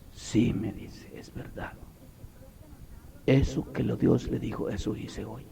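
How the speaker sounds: hushed imitation of a confessing son; quiet confession. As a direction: own up almost under the breath.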